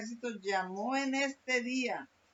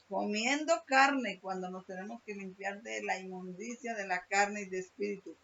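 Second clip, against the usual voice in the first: emphatic preaching; 5 dB louder than usual. Acted. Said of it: "repeated emphasized phrase".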